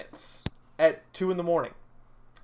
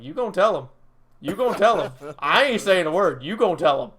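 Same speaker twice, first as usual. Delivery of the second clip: firm, louder insistent push; stern demand; 5 dB louder, faster than usual. Retold or imitated. Girlfriend presses me to tell police, firm and loud. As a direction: press him to confess, arms crossed.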